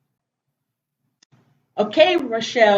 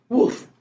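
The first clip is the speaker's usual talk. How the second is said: one short imitation woof; a single mock bark; puppy bark; 3 semitones higher than usual. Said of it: "What did Biscuit say?".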